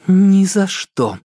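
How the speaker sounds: high, slow and flatly final; adamant refusal. A narrator's reading. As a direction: refuse him point-blank. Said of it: "категорично ответила она".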